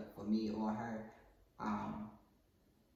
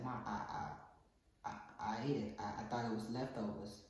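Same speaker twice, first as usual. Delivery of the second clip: low, soft, stammering excuse; sheepish confession; 4 semitones lower, 10 dB quieter than usual. Acted. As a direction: admit it timidly in a small voice. Son hesitantly confessing.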